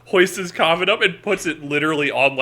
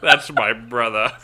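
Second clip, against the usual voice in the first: put-on old-timey swindler voice; 4 semitones lower, 4 dB louder than usual. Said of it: "your old-timey, like, swindler voice".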